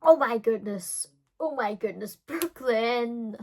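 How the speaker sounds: loud, slow cringe; exasperated exclamation. Real, not acted. Recalling her teen drama, a loud slow exasperated groan. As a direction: groan at your past self.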